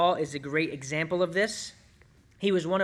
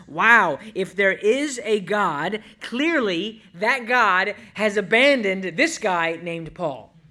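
exclaimed louder, with a startled Wow, then dropping off at the end; skeptical unbeliever; 5 dB louder, slower than usual. Retold or imitated. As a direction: play a doubter who is shocked by Paul's bad luck. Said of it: "an unbeliever might say something like this".

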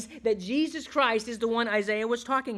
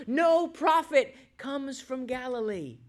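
scornful retort; 4 semitones higher, slower than usual. Retold or imitated. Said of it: "They replied".

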